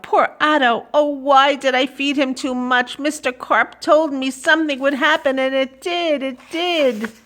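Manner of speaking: put-on regretful boy. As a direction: lament like a remorseful boy. Boy blames himself for Otto.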